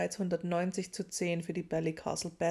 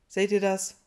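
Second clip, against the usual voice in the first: triumphant; 9 dB louder than usual. A narrator's reading. Ron triumphantly showing off Harry.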